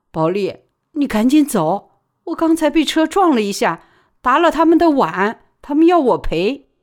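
panicked woman explaining herself; frantic pleading. Acted. He sao begging Baoli to leave, high and frantic. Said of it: "她正尖叫着辩解".

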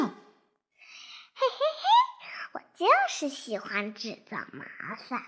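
put-on a naughty girl hiding and gloating; giggling. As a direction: giggle mischievously behind the tree. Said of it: "她咯咯地笑着".

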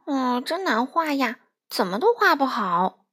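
a touch of dejected frustration, slowing on the first line; mild discouraged complaint; frustrated sigh. Acted. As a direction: grumble it, unhappy with the drawing. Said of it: "沮丧地说".

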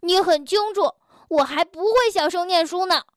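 抬高音调大声地喊; 不服气地嚷回去; 提高嗓门. Acted. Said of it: "提高了嗓门喊道". (跳跳抬高嗓门嚷回去)

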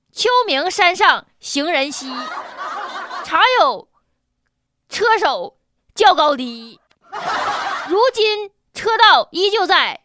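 slow, measured poem reading; poem recital. Acted. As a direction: recite like classical verse. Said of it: "所以网友作诗".

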